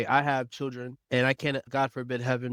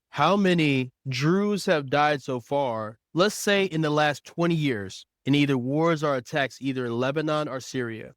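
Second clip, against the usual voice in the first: asking the voice assistant; 4 dB louder than usual. Real, not acted. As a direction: dictate each word clearly to the assistant. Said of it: "find out".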